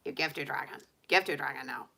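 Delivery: a hint of a bossy cartoon dragon in broken English; lightly voiced dragon making demands. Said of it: "she wants to hear my dragon voice".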